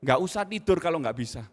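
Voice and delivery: a harsh father's reprimand; harsh scolding. Retold or imitated. Father scolding son over maths homework, harsh and loud. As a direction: sternly scold the child, loud. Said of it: "Uh, kejam ya".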